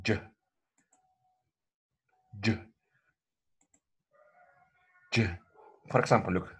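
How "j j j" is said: crisp "J" affricate sound, stop then friction; demo affricate. Shown as a demonstration. Teacher modeling the affricate for the class, crisp. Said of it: "this sound is used to pronounce".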